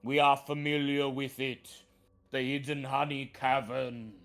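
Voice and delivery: put-on a touch of grumble in an old tree voice; grumbling treant. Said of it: "grumbles the treant".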